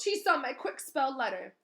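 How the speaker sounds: high, loud angry caretaker; angry accusation. Acted. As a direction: keep snapping the accusation. Filch accusing.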